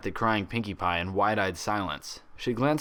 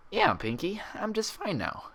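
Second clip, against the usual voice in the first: reassuring grin; 11 semitones higher, 3 dB quieter than usual. A narrator's reading. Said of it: "with a reassuring grin".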